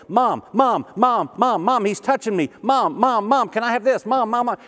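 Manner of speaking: put-on high, loud whiny kid calling mom; whiny tattling little sibling. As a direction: nag like a clingy little child. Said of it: "She says".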